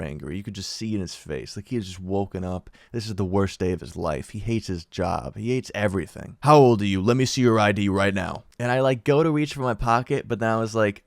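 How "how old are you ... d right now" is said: louder, clipped cop demand for ID; stern demand. Retold or imitated. Cop demanding the teen's ID, loud and stern. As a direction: bark the question, then the order.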